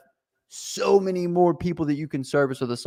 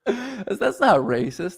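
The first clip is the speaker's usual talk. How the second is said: laughing; 8 semitones higher, slower than usual. Real, not acted. Host cracking up after the accent bit, laughing. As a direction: start talking while still laughing.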